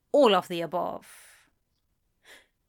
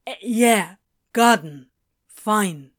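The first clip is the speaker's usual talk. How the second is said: reluctant agreement; 7 dB louder than usual. A narrator's reading. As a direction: concede it word by word, taken aback. Crowley uneasily confirms the safe word.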